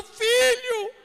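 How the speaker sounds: a preacher shouting to the church that God casts out demons; preaching at full force. Real, not acted. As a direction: drive it home to the congregation. Preaching climax to congregation.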